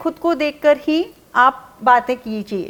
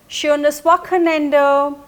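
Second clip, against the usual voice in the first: very slow, each syllable laid out for learners; slow teaching model; much slower than usual. Shown as a demonstration. Teacher modelling a weekend goodbye for learners, slowly. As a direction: spell the German out slowly so students can copy. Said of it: "तो वो बोलेंगे".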